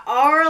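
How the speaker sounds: "R" said as the name of the letter; "R" demonstrated as the sound heard in place of "our". Shown as a demonstration. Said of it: "like the letter R".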